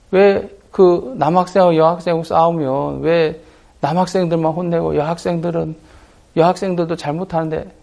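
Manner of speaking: mock aggrieved pleading; insistent complaint. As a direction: argue like wronged schoolboys. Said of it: "막 주장하더라고요".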